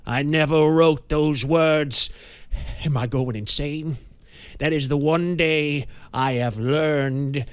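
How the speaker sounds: loud, rising dread; a man afraid he is going insane; panicked. A narrator's reading. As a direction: cry it out as memory returns. Banks panicking about madness.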